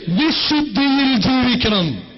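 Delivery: slow, weighted on വിശുദ്ധിയിൽ; slow emphatic answer. Real, not acted. Preacher to church, slow emphatic answer. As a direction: spell out the answer so it lands.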